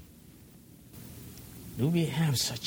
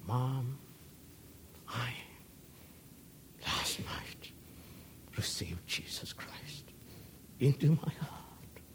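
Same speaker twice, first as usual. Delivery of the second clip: put-on child on the phone; 8 dB quieter than usual. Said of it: "telephone call".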